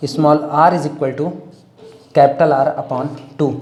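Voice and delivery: very slow, spaced formula; slow dictation. Shown as a demonstration. Teacher dictating a formula, very slow. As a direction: read it out slowly for notes. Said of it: "dictating formula".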